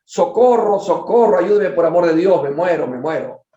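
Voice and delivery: loud, high cry of help, fading at the end; dying man yelling for help; shouting for help. Acted. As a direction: read it as a panicked shout for help. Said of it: "comenzó a gritar estentóreamente".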